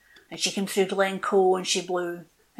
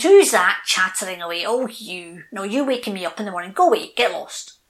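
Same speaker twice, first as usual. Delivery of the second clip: put-on grumpy old oak; 6 dB louder than usual. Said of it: "the grandfather looks at".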